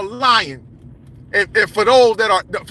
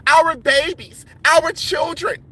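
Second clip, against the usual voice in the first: mocking lament; 4 semitones higher, slower than usual. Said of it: "we always quick to cry".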